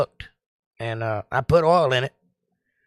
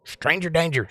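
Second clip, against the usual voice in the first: higher-pitched playful warning; mock alarm; 4 semitones higher than usual. Streamer joking about a complete stranger, mock alarm.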